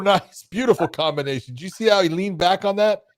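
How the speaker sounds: talking while chewing gum. Real, not acted. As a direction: gum smacking between the words. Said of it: "telling me to get rid of your gum".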